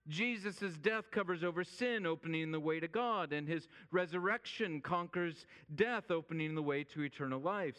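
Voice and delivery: proclaiming from the pulpit; forceful preaching. Acted. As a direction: preach it out with rising and falling emphasis.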